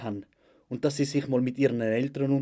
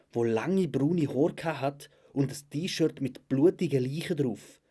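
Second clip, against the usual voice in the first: usual speaking voice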